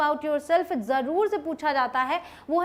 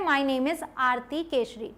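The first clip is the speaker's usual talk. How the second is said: slow example; 3 semitones lower, 3 dB quieter, much slower than usual. Shown as a demonstration. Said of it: "एक example आप देख सकते हैं".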